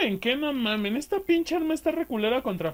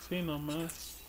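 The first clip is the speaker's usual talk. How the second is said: ordinary delivery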